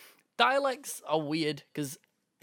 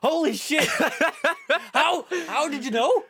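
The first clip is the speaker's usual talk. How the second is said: high, loud stunned disbelief; shocked; 10 semitones higher, 5 dB louder than usual. Real, not acted. Hearing the right answer from a friend, real astonishment. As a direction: gasp it out, truly floored.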